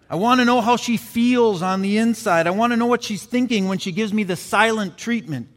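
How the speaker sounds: the biker begging to understand women; pleading biker. Acted.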